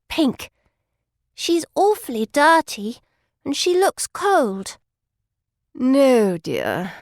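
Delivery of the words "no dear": stern mother. A narrator's reading. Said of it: "says the mother".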